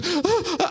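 imitated sobbing gasps; catching her breath. Husband imitating his crying wife, gasping for breath. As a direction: gasp for air as if mid-cry. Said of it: "she catches her breath".

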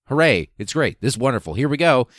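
mock delighted cheer. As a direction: cheer it like a game-show host, mocking. Mocking Freeman's glee at ECT.

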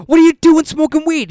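high, loud mock scolding; hammed-up incredulous cop; imitating the cop. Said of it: "That's how he talked?".

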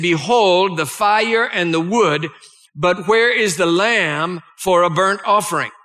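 measured, solemn Bible reading; solemn scripture reading to a congregation. Acted. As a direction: read the old King James words with weight. Reads Genesis passage aloud.

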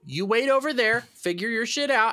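breezy dismissive. Retold or imitated. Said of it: "to me, I'm like".

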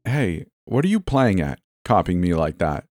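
understated annoyance; angry, embarrassed. Acted. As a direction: accuse with a touch of anger. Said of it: "My anger and embarrassment".

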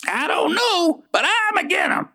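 gruff rant against women; grumpy rant. Acted. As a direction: grumble it with old suspicion. Grumpy rants about females.

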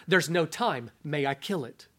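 low, quiet, insistent; stern angel voice. Acted. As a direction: press the question softly.

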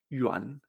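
YUAN said "yu-an" with open a; layman's pronunciation. Retold or imitated. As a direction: say YUAN Spanish-style, ending in -an. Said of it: "muchas personas que no estudian chino".

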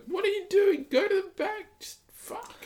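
very high, loud berating, dropping to a hushed curse; high-pitched mock telling-off, last words muttered; mock scolding. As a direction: shriek an imitation of a woman berating someone. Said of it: "and she's like".

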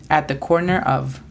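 "at the corner of" with stress on corner, weak of; English at the corner of. Shown as a demonstration. Teacher models "at the corner of" for learners, English pronunciation. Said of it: "La pronunciación fonética es A T".

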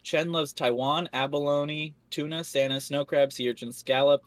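one unbroken breath, running out of air; all in one breath. Shown as a demonstration. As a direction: rattle off the long name without breathing. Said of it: "I'm gonna see if I can do this in one breath".

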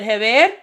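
Heber with a breathy H for the G, Spanish vowels; Spanish H sound. Retold or imitated. Teacher calling the roster, Heber with an H sound. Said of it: "is the H sound".

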